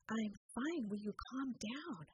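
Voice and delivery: soft, slow, exasperated; exasperated teen. Retold or imitated. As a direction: roll your eyes and calm her down. Daughter soothing mother.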